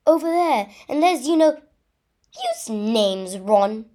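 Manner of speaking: loud, urgent acted shout. A narrator's reading. Hermione to Ron facing the enemy, shouted. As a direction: call it out across the space. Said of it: "shouted Hermione".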